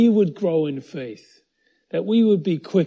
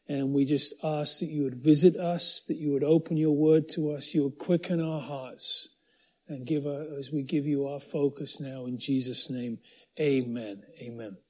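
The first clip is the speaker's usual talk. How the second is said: hushed, trailing-off prayer; 4 dB quieter than usual. Real, not acted. Pastor asking God to open his word, soft prayer. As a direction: pray softly, sinking down to the amens.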